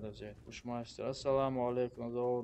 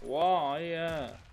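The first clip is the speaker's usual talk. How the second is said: surprised; 6 semitones higher, 9 dB louder, slower than usual. Real, not acted. Surprised reaction during match.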